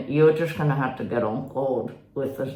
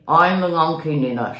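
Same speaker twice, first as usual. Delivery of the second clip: louder, firmer monkey voice; convincing monkey voice; 6 dB louder than usual. Shown as a demonstration. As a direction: say it like you mean it, as monkey. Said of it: "Talk to me".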